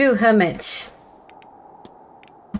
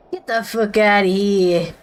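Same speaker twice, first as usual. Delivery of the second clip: "Get the fuck outta here" in a light New York accent. Shown as a demonstration. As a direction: toss off "outta" Brooklyn style. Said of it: "why can I say that in, like, a New York accent".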